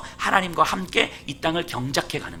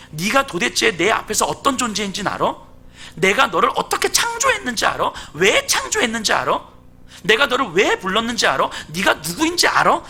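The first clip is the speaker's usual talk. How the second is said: lightly acted, insistent questioning; preacher's mildly imitated divine interrogation; God's challenge; 6 semitones higher, 3 dB louder than usual. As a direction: press Job with question after question. Preacher voices God challenging Job.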